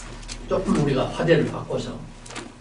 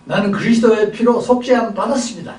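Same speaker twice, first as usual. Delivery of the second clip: raised, higher mock proclamation; boastful proclaiming; 6 semitones higher than usual. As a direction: proclaim it like a proud believer. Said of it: "큰 소리 칩니다".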